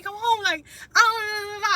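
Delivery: real tears, the voice breaks on each word; crying. Real, not acted. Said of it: "bawling, eyes crying".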